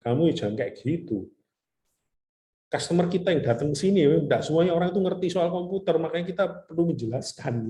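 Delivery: imitating a friend's annoyed reprimand; retold scolding. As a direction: lecture a partner in mild exasperation. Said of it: "teman saya marah-marah".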